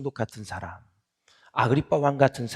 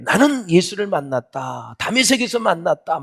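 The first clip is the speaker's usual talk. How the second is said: loud, raised testimony in Paul's place; fervent proclamation; 6 semitones higher, 5 dB louder than usual. Retold or imitated. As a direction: proclaim it like an impassioned witness. Preacher voices Paul's fervent testimony.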